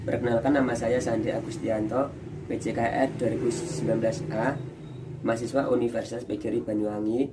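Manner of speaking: muffled behind a face mask; talking through a mask with a cold. Real, not acted. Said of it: "saya pakai masker, agak flu".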